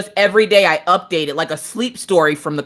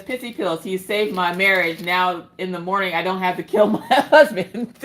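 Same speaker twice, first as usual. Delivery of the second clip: mock testimonial. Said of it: "Naomi says".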